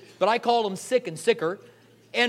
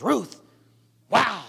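pleasantly surprised; 2 semitones higher, 5 dB louder than usual. Retold or imitated. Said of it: "and he goes".

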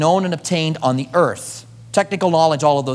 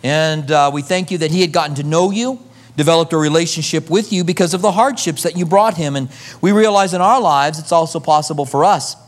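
closing prayer. Acted. Pastor praying over his congregation, earnest and humble.

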